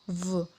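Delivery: soft V as a buzzed "vuh"; vibrating V sound. Shown as a demonstration. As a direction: say V softly from a vibrating throat. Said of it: "area tenggorokan". (bunyi V lembut dengan getaran tenggorokan)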